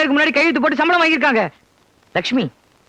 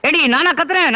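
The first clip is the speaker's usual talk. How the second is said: angry denial; 3 semitones higher than usual. Acted. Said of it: "திடீர்னு ஏன் இப்படி கத்துறீங்க".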